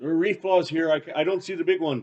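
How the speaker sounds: high-pitched, yelled call. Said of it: "like, yell down".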